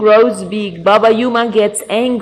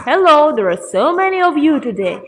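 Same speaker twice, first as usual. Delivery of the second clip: quick, higher grandpa reply; lightly voiced grandpa, pitched up and brisk; 4 semitones higher, faster than usual. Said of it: "The grandpa responds".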